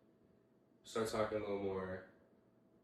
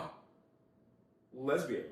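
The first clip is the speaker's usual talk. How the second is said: disgusted "lesbian"; 6 semitones higher than usual. Retold or imitated. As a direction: mimic the friend's disgust on "lesbian". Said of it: "why do you sound like that?".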